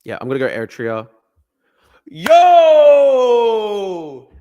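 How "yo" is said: loud, high yell of triumph; real victory whoop; excited shout. Real, not acted. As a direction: shout like you just nailed it. Celebrating a correct guess.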